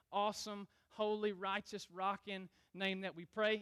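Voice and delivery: informal pastor's prayer, settling down; spontaneous prayer. Real, not acted. Leads the congregation in prayer.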